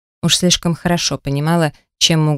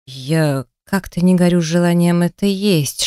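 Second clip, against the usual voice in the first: ordinary delivery, nothing marked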